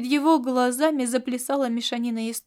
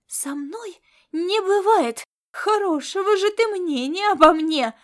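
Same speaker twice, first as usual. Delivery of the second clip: offended retort; 7 semitones higher, 4 dB louder than usual. Acted.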